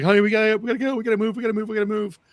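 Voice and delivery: high-pitched, urgent mom impression; imitated rushing mom. Mom to crying toddler while rushing, imitated urgent pleading. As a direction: hurry a child along in a high, insistent voice. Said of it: "like, rushing, trying to get somewhere".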